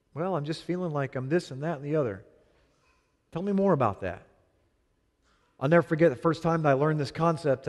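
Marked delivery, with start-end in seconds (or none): 3.3-4.3 calm listening. Shown as a demonstration. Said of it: "Men, deal with the feeling".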